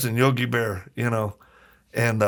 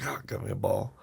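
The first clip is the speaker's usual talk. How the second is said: whispered to himself, thrilled; delighted whisper; 3 semitones lower, 9 dB quieter, faster than usual. Retold or imitated. Kid finding the foul ball, thrilled whisper. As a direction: breathe it out like a kid hugging a secret.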